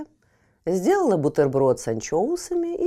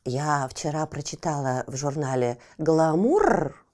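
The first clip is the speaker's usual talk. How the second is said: purring cat; 7 semitones lower than usual. Acted. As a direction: purr it lazily like a pampered cat. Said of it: "промурлыкала Фифочка".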